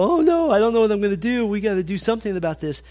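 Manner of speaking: high, fast, hammed-up panicky voice; mock panic. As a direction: play the flustered husband losing it, quick and high. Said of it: "that you don't go".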